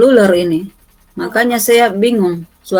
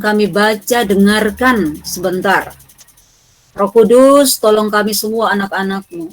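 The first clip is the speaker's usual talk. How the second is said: earnest prayer voice; praying aloud to open class. Real, not acted. (suara doa yang khusyuk)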